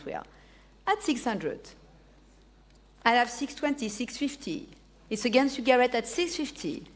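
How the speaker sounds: auctioneer calling bids; brisk auction calling; auction bid spotter. Real, not acted. Auctioneer running live bidding.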